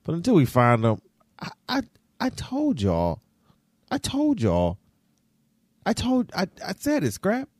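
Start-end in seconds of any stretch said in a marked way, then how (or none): 1.4-7.5 gloating. Real, not acted. Gloating I-told-you-so.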